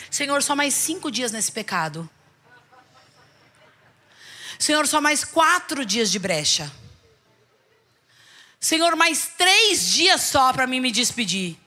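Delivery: slow, drawn-out begging; pleading bargaining. Retold or imitated. Believer bargaining with Jesus.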